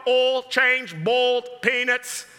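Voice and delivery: OIL like "all", BOILED like "bold"; mispronounced oil, boiled. Retold or imitated. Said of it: "sounds like you're saying owl".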